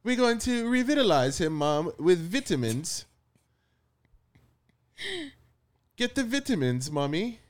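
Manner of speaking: put-on little kid voice. Child voice asking mom.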